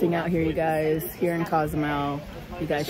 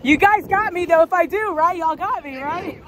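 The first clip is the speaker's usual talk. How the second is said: laughing; 10 semitones higher, 3 dB louder than usual. Real, not acted. Laughing, teased by friends.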